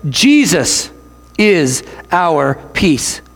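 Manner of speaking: slow, weighty emphasis on each word; slow, heavy emphasis; in bold letters. Shown as a demonstration. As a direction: say it like bold type. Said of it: "like if Paul put it in bold letters".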